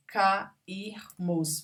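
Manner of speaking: "Cairmos" as ca-ir-mos; syllable by syllable. Shown as a demonstration. Teacher marking a hiatus, syllable by syllable. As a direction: pause between each syllable of "Cairmos". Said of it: "Se separam".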